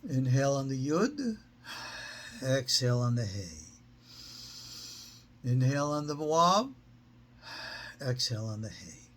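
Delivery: measured breathing cues, long pauses between; guided breathing. Shown as a demonstration. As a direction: lead a breath, lifting on inhale, settling on exhale.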